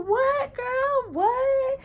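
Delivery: very high squealed what; excited disbelief. Retold or imitated. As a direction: squeal it high, eager for gossip. Excited at friend's news.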